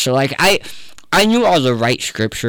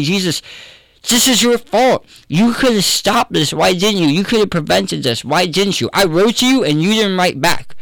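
higher mock accusation, pitched well up; retelling Martha's bitter reproach, voiced well higher; accusing sister; 7 semitones higher than usual. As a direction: play the grieving sister blaming Jesus, pitched up. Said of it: "a very aggressive thing to be saying".

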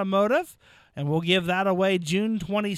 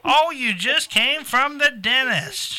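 surprised; 5 semitones higher, 7 dB louder than usual. Real, not acted. Host reacts to caller.

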